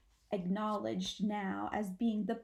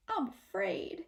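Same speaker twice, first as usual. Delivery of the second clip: whispered fear; 3 semitones higher than usual. Acted. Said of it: "Apple Blossom whispers back".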